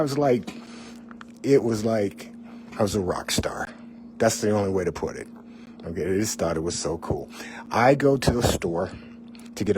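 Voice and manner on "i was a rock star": whispered aside. Real, not acted. Sly aside about his fame.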